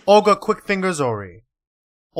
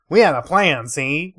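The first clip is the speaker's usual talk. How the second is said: louder Brooklyn gangster read of "We had a plan, see?"; mock Brooklyn accent; 4 dB louder than usual. Streamer redoing the witness line as a mock Brooklyn gangster. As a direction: punch "We" and say "see?" like an old Brooklyn mobster. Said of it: "is she fucking Brooklyn?".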